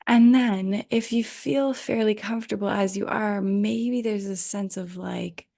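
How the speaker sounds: unhurried guiding voice with long pauses; guided meditation. Real, not acted. Yoga teacher settling listeners in for Yoga Nidra, guided meditation. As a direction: ease listeners into rest, leaving space between phrases. Leads into guided rest practice.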